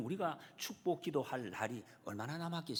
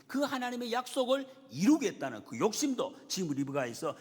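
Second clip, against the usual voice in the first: raised, high-pitched sermon delivery; full-force preaching; 9 semitones higher, 5 dB louder than usual. Real, not acted. Preacher proclaims God's promise about two nations, full-force preaching. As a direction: proclaim it with rising force to the congregation.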